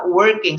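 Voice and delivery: working said alone, firmly, falling; single out working with a falling tune; stress on working. Shown as a demonstration. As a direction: lean on the word working. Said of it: "I would like to emphasize the word working".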